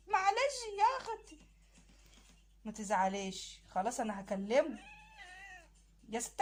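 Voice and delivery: soothing. Acted. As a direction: hush her gently. Man consoling her again.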